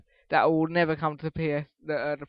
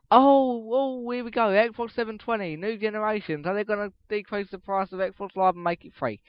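higher-pitched, imitating hopeful fans getting carried away; mock excited fans; 5 semitones higher than usual. Podcaster voicing hopeful Xbox fans, mock excited.

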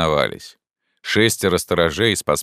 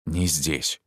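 much softer warning murmur; hushed; 6 dB quieter than usual. Acted. Pierrot quietly warns the narrator. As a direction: hush him, others may hear.

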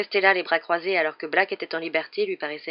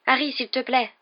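higher-pitched, earnest plea; tearful pleading; 6 semitones higher, 4 dB louder than usual. A narrator's reading. Hermione begging Harry to be reasonable, tearful pleading. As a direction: beg gently, close to tears. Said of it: "les yeux brillants de larmes".

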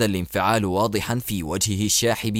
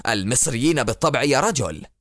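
angry exclaim. Acted. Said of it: "هتف به باراك في غضب".

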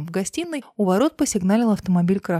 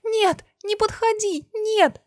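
much higher, slow frightened cry; girl seeing a dead friend cries no; terrified cry; 13 semitones higher, slower than usual. Acted. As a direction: recoil and cry out in terror. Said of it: "Квитковская вскрикнула".

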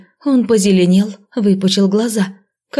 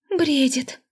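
confident; 7 semitones higher, 5 dB quieter than usual. A narrator's reading. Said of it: "уверенно заявила Полина".

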